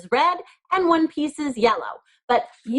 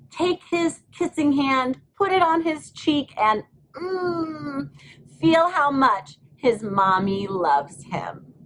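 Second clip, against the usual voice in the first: tender storybook voice; 5 semitones higher than usual. Acted. Teacher to the class, telling the mother's kiss, tenderly. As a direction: melt into the moment of a mother's love.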